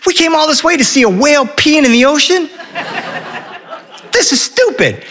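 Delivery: put-on high-pitched, indignant child; whining kid. Henry the son griping about the whale sighting, high whine. Disappointed boy's repeated complaint.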